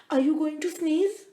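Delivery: high little mouse voice; squeaky mouse voice. Acted. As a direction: talk like a tiny mouse. Mouse character voice.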